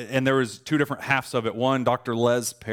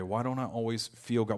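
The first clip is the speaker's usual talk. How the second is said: soft question; 7 dB quieter than usual. Shown as a demonstration. Preacher quietly posing the sermon's question. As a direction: ask it softly to yourself. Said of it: "a couple ideas for us to talk about".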